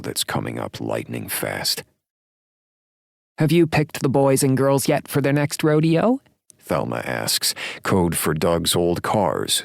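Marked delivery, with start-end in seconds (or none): 3.4-6.2 put-on much higher, louder old woman; chirpy elderly lady asking. A narrator's reading. Old lady Thelma asks.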